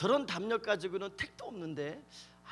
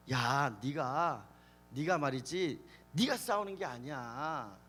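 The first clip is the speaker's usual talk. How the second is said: slow, lower-pitched acted persuasion; 4 semitones lower, slower than usual. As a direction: reason with him patiently, drawing out the words. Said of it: "기드온을 설득을 하는". (낮고 느리게 타이르듯 설득)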